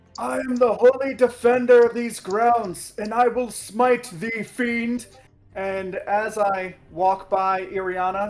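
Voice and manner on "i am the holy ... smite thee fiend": yelled battle cry, getting higher and louder. Describing his character's actions to the group, yelling a battle cry. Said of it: "I'm going to yell out".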